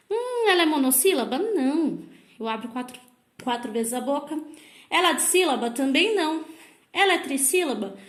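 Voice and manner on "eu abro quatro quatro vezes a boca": ordinary talk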